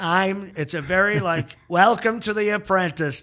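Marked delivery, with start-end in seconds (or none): 1.7-3.2 yelling showman announcer voice, big intro style. Showing how to start a Trump impression, yelling Trump voice. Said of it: "It's sort of a yelling".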